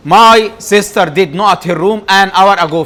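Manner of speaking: very slow, each word set apart; slow dictation. Shown as a demonstration. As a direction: read the sentence out slowly for the class. Teacher reading exam sentence aloud. (إملاء بطيء كلمة كلمة)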